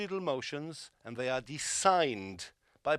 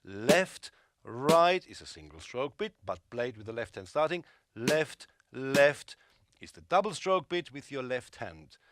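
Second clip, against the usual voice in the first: hands called out, accented strokes punched louder; counting strokes with accents; 2 semitones lower, 3 dB louder than usual. Shown as a demonstration. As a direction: call each stroke, hitting the accents. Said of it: "now you turn it round".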